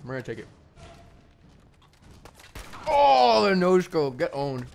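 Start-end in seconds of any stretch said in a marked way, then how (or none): 2.9-4.7 loud, high gamer hype; excited gloating. Real, not acted. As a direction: yell it like a trash-talking gamer. Gamer gloats over a no-scope kill.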